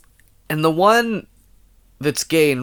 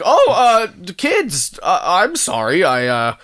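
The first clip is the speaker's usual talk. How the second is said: flustered dad; 4 semitones higher than usual. Retold or imitated. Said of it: "the he's like".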